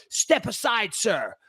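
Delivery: lightly imitated officious scolding; mildly mocked bossy orders; mean, nasty guard. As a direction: give a hint of a nasty guard, pitched a bit up. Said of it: "really mean and nasty with it".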